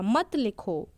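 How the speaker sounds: "मत लिखो" as one joined phrase; resuming after pause. Shown as a demonstration. Teacher resumes after the comma, joining मत to लिखो. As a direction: keep मत attached to लिखो, falling at the end. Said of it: "फिर मैंने बोला".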